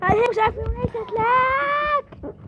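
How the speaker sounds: breaking into giggles mid-line; laughing. Acted. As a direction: laugh as you say it. Laughs while speaking.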